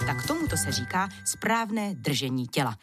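usual speaking voice

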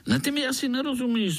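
high, quick, grinning tease; the gnat amused at the puzzled boy. A narrator's reading. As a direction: rattle it off with a grin. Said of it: "zubil se komár".

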